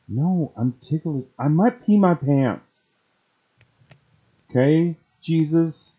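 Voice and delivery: high, squirming, tickled protest; being tickled. Real, not acted. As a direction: squeal while being tickled.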